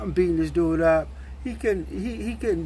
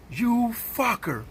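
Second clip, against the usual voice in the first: shocked insult; 7 semitones higher, much slower than usual. Retold or imitated. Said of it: "He was shocked".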